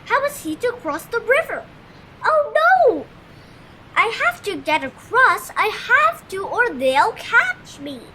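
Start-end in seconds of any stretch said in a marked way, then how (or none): 2.2-8.0 high, loud panicked cry; high frantic alarm; gasped panic. A narrator's reading. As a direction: gasp it out, trapped and frightened. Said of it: "he gasped".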